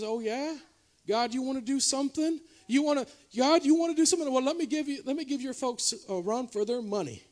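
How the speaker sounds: taunting devil. Retold or imitated. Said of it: "He says".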